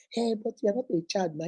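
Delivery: a hushed persuading man; coaxing man. Retold or imitated. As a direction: lean in and coax quietly.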